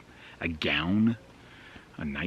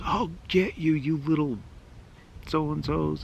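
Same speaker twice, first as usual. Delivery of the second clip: high, louder threatening yell; angry yell; 9 semitones higher, 4 dB louder than usual. Retold or imitated. Angry dad yelling threats at the hidden kids, loud shout. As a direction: shout a threat into the dark street. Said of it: "he just yelled".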